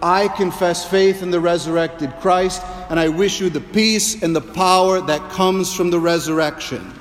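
a believer proclaiming faith to a neighbor, fervently; fervent confession. Retold or imitated. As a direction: proclaim it with full conviction. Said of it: "saying to your neighbor".

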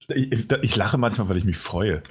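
talking through giggles; trying not to laugh; stifled giggles. Real, not acted. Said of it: "Hör auf zu lachen".

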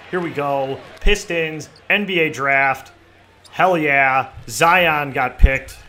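loud, drawn-out hype call; hyped announcer. Acted. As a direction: shout it like a big draft reveal. Hyped draft announcer bit.

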